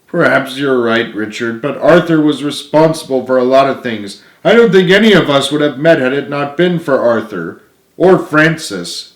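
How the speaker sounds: a hint of a sad giant; James, only lightly set apart; lightly voiced giant James. James answers Richard sadly.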